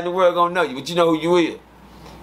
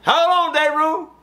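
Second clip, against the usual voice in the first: calling out to the room; 3 semitones higher than usual. Retold or imitated. Calling out to day room again.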